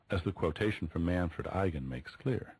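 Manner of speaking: ordinary talk, nothing marked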